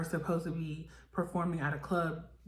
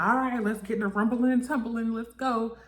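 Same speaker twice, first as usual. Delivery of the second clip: mock Natalie hype; 6 semitones higher, 4 dB louder than usual. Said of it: "Natalie's like".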